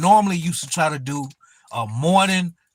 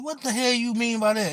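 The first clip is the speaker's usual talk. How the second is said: higher-pitched retold disbelief; baffled question; 6 semitones higher, 4 dB quieter than usual. Streamer asks what the troll meant, baffled. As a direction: replay your puzzlement, pitch lifted.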